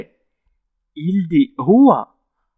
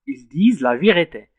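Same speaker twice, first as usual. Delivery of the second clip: "Ils disent la vérité" said slowly, each word spaced out for students; slow, careful dictation pace; slow teaching demo; 2 semitones lower, much slower than usual. Shown as a demonstration. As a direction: spell the sentence out slowly so pupils can follow.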